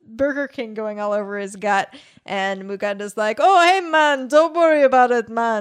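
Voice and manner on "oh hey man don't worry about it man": bad, laid-on Jamaican accent, high and loud. Retelling a scene where Jerry meets him: Muganda in bad Jamaican accent. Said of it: "i'm going to have to do the bad white person's jamaican accent".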